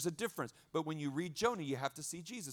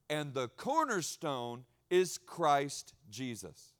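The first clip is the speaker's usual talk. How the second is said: slow solemn reading; 2 semitones lower, much slower than usual. Acted. Slow solemn scripture line.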